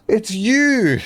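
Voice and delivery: high, hushed gasp of recognition; mock shocked realisation. Waking beside the worm, mock shocked realisation. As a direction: gasp it out as if seeing a ghost.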